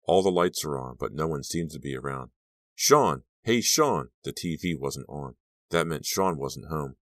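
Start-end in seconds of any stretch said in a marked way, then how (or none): 2.8-4.1 high, loud call through the house. A narrator's reading. Calling Sean on coming home, loud raised voice. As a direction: shout to someone in another room.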